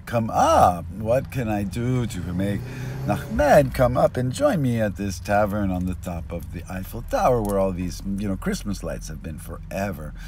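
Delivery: a put-on sorry-for-himself whine; whimpering. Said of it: "he's kinda whimpering".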